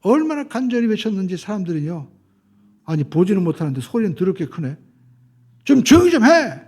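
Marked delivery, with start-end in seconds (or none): 2.8-6.6 imitating an irritated crowd telling him to hush; mock scolding. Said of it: "그렇게 꾸짖었다는 거예요". (짜증 난 군중을 흉내 내며 꾸짖는 말투)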